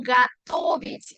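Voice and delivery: slow готовить, long stressed second O. Shown as a demonstration. Teacher repeating the verb for learners, second O of готовить stressed. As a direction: draw out the TO in готовить. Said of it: "tilde en la segunda O".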